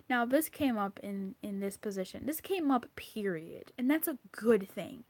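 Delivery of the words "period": whispered period. Real, not acted. Emphatic close.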